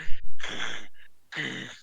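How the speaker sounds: imitated gator growl; gator noise. Game master voices the cornered gator, growling. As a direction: make the noise of a riled gator. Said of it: "the gator's like".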